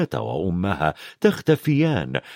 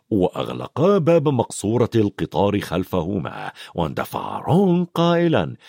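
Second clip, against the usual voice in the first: usual speaking voice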